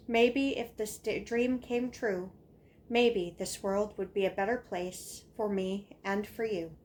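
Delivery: declaimed verse with an insistent repeated cadence; earnest schoolkid's speech-poem, evenly paced; poem recitation. Acted. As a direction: recite each line like a small proclamation. Recites own childhood poem.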